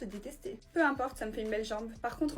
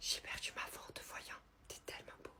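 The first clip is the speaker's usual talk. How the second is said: barely voiced, soft, breathy whisper. Answering a question about whispering, still whispering: whispering. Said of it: "pourquoi tu chuchotes ?".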